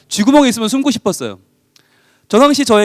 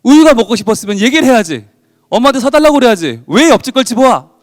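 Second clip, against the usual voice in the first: higher, louder angry mother yelling; furious scolding; 4 semitones higher, 5 dB louder than usual. Retold or imitated. Mother furious at her son for stealing milk, yelling. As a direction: scold the boy at full volume, outraged. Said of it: "머리끝까지 화가 나서".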